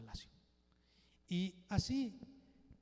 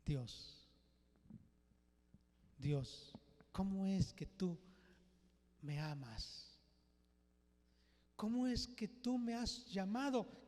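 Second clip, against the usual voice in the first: an unworthy sinner's prayer rising to awe; humbled prayer; 4 semitones higher than usual. Acted. Preacher voicing a believer praying to God, building awe.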